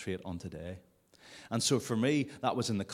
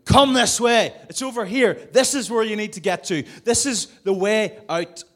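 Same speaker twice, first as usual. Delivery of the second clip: calling out loud and much higher; shouting; 13 semitones higher, 15 dB louder than usual. Retold or imitated. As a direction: yell directions across a dark room, high and loud. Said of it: "and I was shouting".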